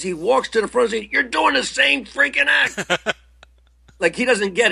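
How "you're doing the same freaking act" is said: furious angry yell, pitched up. A comic retells the man paying him reacting to his same act, imitating an angry scream. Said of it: "He just starts screaming".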